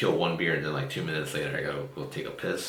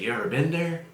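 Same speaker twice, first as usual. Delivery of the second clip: imitating Van Dyke; 9 semitones higher than usual. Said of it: "He's like".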